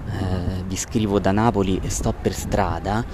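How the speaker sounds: noisy street recording; phone recording outdoors; bad audio from the street. Real, not acted. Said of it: "Scusate l'audio incasinato".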